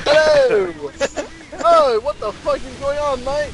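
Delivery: high, loud hammed-up British accent; slow loud comic British accent; mock British accent. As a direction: bark it like a cartoon Brit. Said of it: "random British accent".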